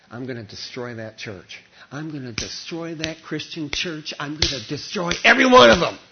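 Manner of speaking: a hint of a vengeful Saul, rising to loud threats; menacing persecutor. Preacher voicing Saul's threat to the church, building menace. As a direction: voice Saul vowing to crush the church.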